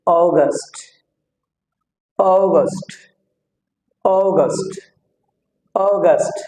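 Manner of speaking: অগাস্ট with long "o" and released T; aspirated final T. Shown as a demonstration. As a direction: say অগাস্ট "oh-gast", airy T at the end. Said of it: "শেষে টি উচ্চারণ হবে টি".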